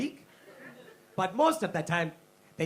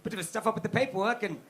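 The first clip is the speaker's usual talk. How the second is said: sheepish posh Brit; 3 semitones higher than usual. Retold or imitated. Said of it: "the British were like".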